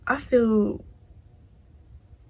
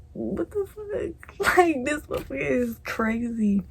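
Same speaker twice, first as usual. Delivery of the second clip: disgusted what the fuck; 5 semitones higher than usual. Retold or imitated. Gum put in mouth, disgusted.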